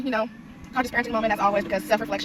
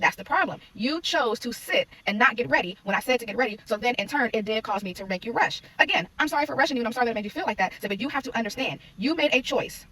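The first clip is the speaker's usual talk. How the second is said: retold lecture, higher and emphatic; firm parent; 3 semitones higher than usual. Mom explaining consequences to her son, firm and emphatic. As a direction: lay it out firmly, leaning on key words.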